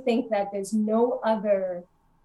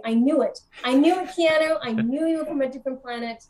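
gleeful I-knew-it; 3 semitones higher than usual. Retold or imitated. Imagining greeting alien Keanu Reeves, playfully excited. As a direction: gloat playfully at a caught alien.

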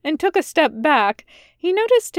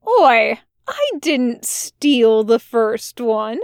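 slow, indignant "Oi" then a drawn-out denial; mock-offended objection; lightly voiced protest; much slower than usual. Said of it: "Crowley protested".

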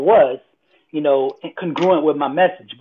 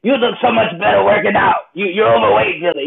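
raised voice, a little higher; blunt trainer; 4 semitones higher, 3 dB louder than usual. Retold or imitated. Trainer telling speaker he is overweight, loud and blunt. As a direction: call him out as the trainer. Trainer calls out his weight.

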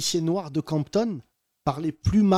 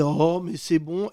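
tag; slower than usual. Retold or imitated. Passagers agacés imités en chœur.

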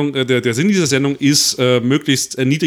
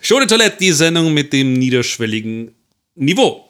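game show host; 3 semitones higher, 6 dB louder than usual. Pretend. Announcing show slogan.

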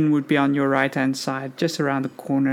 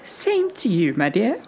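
put-on very old woman; 4 semitones higher than usual. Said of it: "a very old lady".

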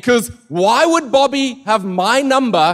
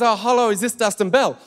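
middle-aged lady; 3 semitones higher than usual. Retold or imitated. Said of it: "sounded like kind of a middle-aged lady".

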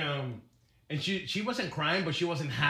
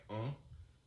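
dismissive uh-huh; 6 semitones lower than usual. Retold or imitated. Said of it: "You're like".

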